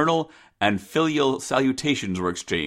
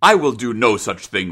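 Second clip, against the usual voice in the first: louder, stern father; firm refusal; 6 dB louder than usual. Acted. Father refuses his daughter's request, loud and firm. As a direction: refuse forcefully.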